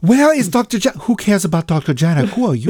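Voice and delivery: jokey, hammed-up Russian accent, breaking into a laugh; mock Russian accent. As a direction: play the Russian lady in a bad Russian accent. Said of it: "That's my flawless Russian accent".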